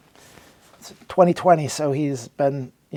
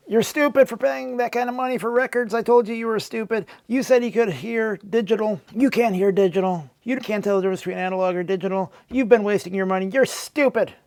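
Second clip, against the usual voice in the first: mock troll rant; 4 semitones higher than usual. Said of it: "they yelled".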